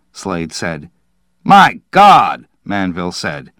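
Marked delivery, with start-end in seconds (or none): 1.4-2.5 loud, high-pitched exclamation; appalled disbelief. A narrator's reading. Manville reacting to Slade's failure, appalled. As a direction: exclaim it, aghast. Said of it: "stared down at him in disbelief".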